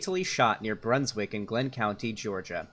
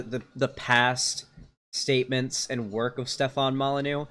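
normal talking voice

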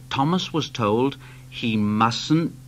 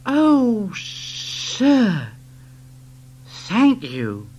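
delighted; 6 semitones higher, much slower than usual. Acted. Thomas thanks director.

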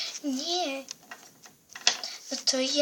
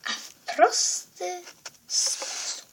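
sinister whisper; 4 semitones higher, 4 dB quieter, slower than usual. Acted. Villain explains.

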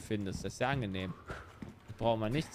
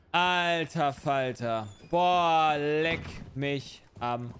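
stunned; 3 dB louder, much slower than usual. Real, not acted. Reacting to jumpscare.

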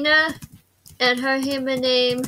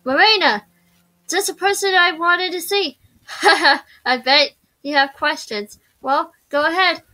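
lightly voiced game character, a bit higher; game maker character; 4 semitones higher than usual. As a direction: welcome the new student in character. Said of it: "I could do her voice".

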